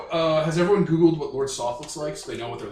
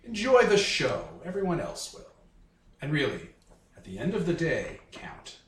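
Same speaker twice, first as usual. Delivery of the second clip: lightly voiced grand showman villain; theatrical, measured dark-lord speech; melodramatic dark lord; 5 semitones lower, 5 dB quieter than usual. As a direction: present the crowd grandly, then sink softly. Soth addresses the count in character.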